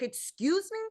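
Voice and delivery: high, soft incredulous question; disbelieving, pitch shooting up; taken aback. Retold or imitated. Woman retells hearing her insurance was canceled, in disbelief.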